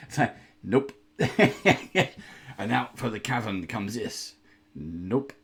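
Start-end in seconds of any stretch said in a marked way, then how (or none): 0.0-1.3 real laugh, louder, breaking into the words. Real, not acted. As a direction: laugh through a disgusted nope. Laughing at the ugly mini.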